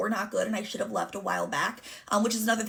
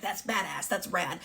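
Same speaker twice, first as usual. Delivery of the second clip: impressed approval; 2 semitones lower, 3 dB quieter, slower than usual. Retold or imitated. Grandfather praising the breakup exit, impressed approval. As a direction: say it as sincere praise, kept level and easy. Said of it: "Not as in, like".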